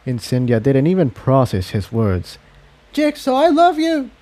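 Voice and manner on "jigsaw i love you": high voice, love leaned on hard; blurted confession. Acted. Incendia interrupting Jigsaw with a sudden confession. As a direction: blurt it out over his words. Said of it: "she interrupted".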